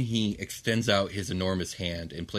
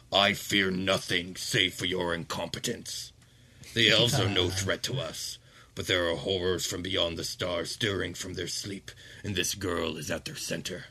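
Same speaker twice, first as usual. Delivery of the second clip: cold archduke. Acted. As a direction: shut the argument down. Ramazal scorns his son.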